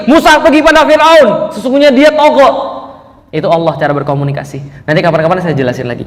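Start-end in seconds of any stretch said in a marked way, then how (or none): 0.1-2.8 firm divine command. Retold or imitated. Preacher voicing God sending Moses to Pharaoh, slow and stern. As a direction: lay down the order slowly with full authority. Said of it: "Lalu tegas lagi".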